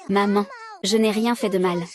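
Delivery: crying while pleading her innocence; tearful protest. Acted. Little girl protests to her mother, crying. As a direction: sob out that you did nothing wrong.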